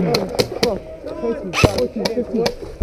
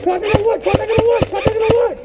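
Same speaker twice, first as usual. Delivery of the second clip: contact shout; 10 semitones higher, faster than usual. Real, not acted. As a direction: bark the warning to the team. Calling enemy contact in the woods.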